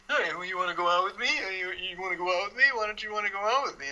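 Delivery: persistent suitor. Retold or imitated. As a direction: keep nagging for a date, playfully.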